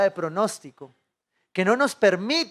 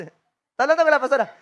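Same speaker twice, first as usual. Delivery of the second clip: sweet phone greeting; 4 semitones higher, 9 dB louder than usual. Retold or imitated. Pastor's wife answers phone sweetly.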